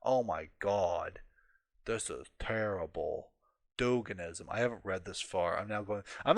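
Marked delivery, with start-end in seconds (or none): 0.0-3.3 hammed-up appalled uncle, slowing right down; mock a scandalized older relative, drawn out; boomer uncle. Boomer uncle mobbed on Twitter launches a spiel, mock-appalled. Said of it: "this is like your boomer uncle".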